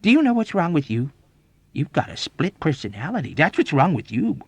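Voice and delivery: loud accusing lecture, climbing in pitch; emphatic, argumentative diagnosis; retorting. A narrator's reading. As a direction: scold him with mounting insistence. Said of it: "Major Sanderson retorted".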